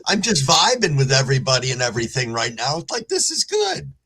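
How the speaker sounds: relaxed, giggly high talk; stoned. Real, not acted. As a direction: talk loose and mellow, really high. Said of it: "I'm not gonna apologize for being high as fuck".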